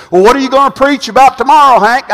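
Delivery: a light, quick imitation of a curious friend; mock friend's question. Quoting reunion friend's question.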